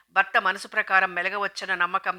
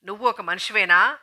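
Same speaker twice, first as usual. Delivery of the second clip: shouting; 5 dB louder than usual. Acted. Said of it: "అరిచింది సుగంధి".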